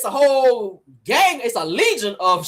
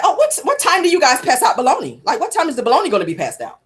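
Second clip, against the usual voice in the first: mock Marlo in jail. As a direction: beg about bologna like a hungry inmate. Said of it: "She's like".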